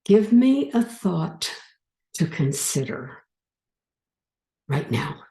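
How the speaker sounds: slow, deliberate request, fading at the end; slow demo line. Shown as a demonstration. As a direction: ask the mind slowly, then let it trail off. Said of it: "repeat what I say".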